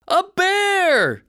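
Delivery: high, loud scream. Acted. Campers see a shape in dark, scream. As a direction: shriek in fright. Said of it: "someone screamed".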